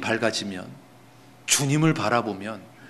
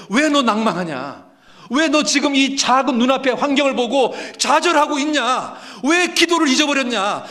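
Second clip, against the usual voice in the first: impassioned self-rebuke; 12 semitones higher, 4 dB louder than usual. Acted. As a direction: shake your own darkened heart awake. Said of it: "자기 마음에다가 얘기하는 겁니다".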